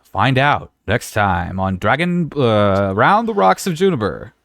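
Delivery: slow "next time on" promo read; a dramatic show announcer tagline. Pretend. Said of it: "tune in until after the commercial break".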